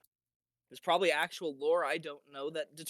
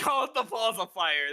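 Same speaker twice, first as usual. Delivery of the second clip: amused; 4 semitones higher, 3 dB louder than usual. Real, not acted. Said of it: "That's great".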